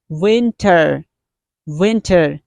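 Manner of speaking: "winter" with a strong final R; American pronunciation. Shown as a demonstration. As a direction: curl the R at the end of "winter". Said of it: "American people say R".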